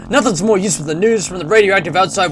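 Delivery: lightly hammed-up American read; American accent. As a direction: deliver it like Cold War American radio. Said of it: "like, an American voice".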